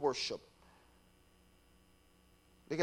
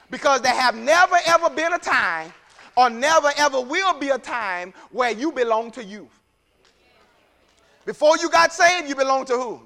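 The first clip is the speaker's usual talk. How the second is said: impassioned preaching; 7 semitones higher, 8 dB louder than usual. Real, not acted. Preaches at full force.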